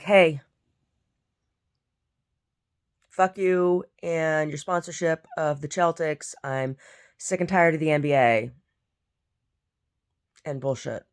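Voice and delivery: mock complaint call, emphatic and drawn out; imagine telling the company off, fed up; half-serious irritated outburst. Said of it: "I'm gonna have to try to contact them".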